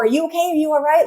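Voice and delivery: high, hovering worried asking; mock anxious parent. Anxious parent at teen's door, high fretting check-in. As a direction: fret at the bedroom door.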